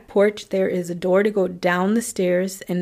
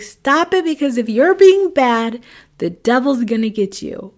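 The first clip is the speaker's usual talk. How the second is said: put-on much higher, louder, threatening older sister; stern scary warning; 4 semitones higher, 4 dB louder than usual. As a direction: scare him with the devil. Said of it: "She was like".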